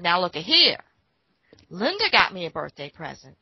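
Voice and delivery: proud announcement. Retold or imitated. Mother shows gift to daddy.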